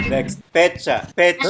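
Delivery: "pecha" with a p, "pe-cha"; Tagalog pronunciation. Shown as a demonstration. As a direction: Filipino "pecha" for fecha. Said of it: "in the most Filipino accent".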